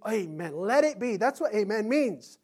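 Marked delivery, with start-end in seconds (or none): none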